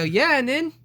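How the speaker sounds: high, cheeky so-what; defiant. Retold or imitated. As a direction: toss it back with mock sass. Defiant reply to nagging grandmother.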